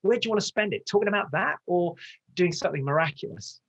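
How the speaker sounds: fervent, emphatic appeal; passionate. Real, not acted. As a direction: get carried away with conviction. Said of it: "Sorry, I'm getting passionate".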